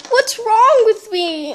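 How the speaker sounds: high, slow line through a giggle; laughing confusion. Acted. Cursed girl to herself, giggling bewilderment. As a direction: laugh helplessly while asking. Necklace makes her act strange.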